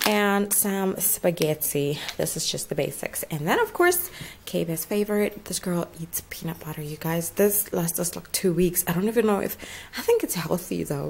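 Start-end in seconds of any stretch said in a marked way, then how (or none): 5.4-7.3 hushed, half-whispered aside; confidential hush. Real, not acted. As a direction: keep it down so she won't hear. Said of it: "shouldn't say it out loud".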